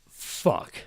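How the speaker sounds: breathy whispered fuck; whispered defeat. Retold or imitated. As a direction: sigh it out in a whisper. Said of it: "and's like".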